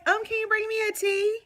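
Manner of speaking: giving in to the waiter and ordering a tea she won't drink, dainty and high; sweet request. Retold or imitated. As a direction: ask ever so politely.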